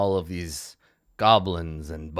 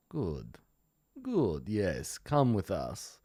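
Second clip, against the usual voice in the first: sly quiet agreement; 6 dB quieter, slower than usual. Acted. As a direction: hiss it softly and slyly. GM voices goblin lord.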